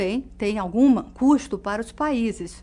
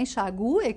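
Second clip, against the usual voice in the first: "enxague" said en-xa-GU-e, the U stressed. Shown as a demonstration. Teacher giving the correct "enxague", stress on U. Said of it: "que é o correto".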